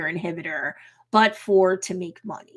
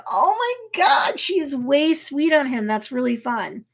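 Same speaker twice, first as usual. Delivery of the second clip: gushing; 5 semitones higher than usual. Retold or imitated. Gushing over a romance.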